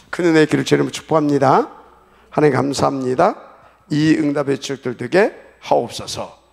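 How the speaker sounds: closing prayer. Real, not acted. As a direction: pronounce the blessing forcefully, settling at the end. (힘 있게 선포하는 마무리 축복 기도)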